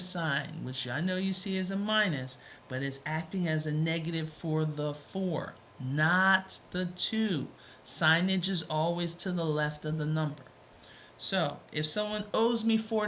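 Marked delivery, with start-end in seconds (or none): 5.8-7.5 "not the two" spelled out very slowly and louder; slow emphatic contrast. Shown as a demonstration. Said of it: "listen to how I'm saying it".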